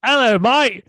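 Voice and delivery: high, hammed-up fake Yorkshire; attempted Yorkshire accent. Fan hailing Weston McKennie, exaggerated Yorkshire accent. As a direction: shout a greeting in mock Yorkshire. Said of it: "You gotta do Yorkshire".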